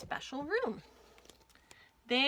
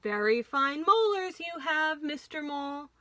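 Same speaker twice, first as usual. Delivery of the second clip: laughing; 5 semitones higher, 5 dB louder than usual. A narrator's reading. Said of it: "laughed Doctor Crunchew".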